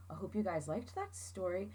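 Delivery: soft unvoiced whisper. Real, not acted. Teacher whispering a goodbye to her class. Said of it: "whispered closing line".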